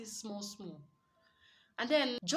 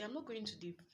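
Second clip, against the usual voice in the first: gently; 7 dB quieter than usual. Shown as a demonstration. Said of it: "You can just gently say".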